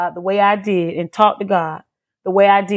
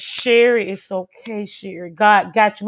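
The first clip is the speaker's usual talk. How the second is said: calming mother. Retold or imitated. Mama comforting her frightened daughter by phone, calming. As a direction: hush and reassure like a mama. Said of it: "a mama's words can just calm you".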